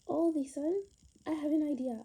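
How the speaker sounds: loud, excited reveal of a big idea; excited announcement. Acted. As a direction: proclaim it proudly, full voice. Dramatic discovery of idea.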